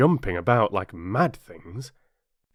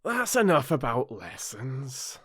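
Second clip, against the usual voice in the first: lightly voiced Griffin, brisk; a hint of a creature, cutting in; gruff Griffin; 3 semitones higher than usual. Griffin's voice in the story.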